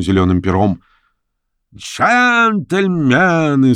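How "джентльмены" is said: high, stretched-out furious call; frenzied cry. A narrator's reading. Masked man in red coat hails the boat, frenzied. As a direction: fling the word out in a frenzy. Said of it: "сказал он неистово".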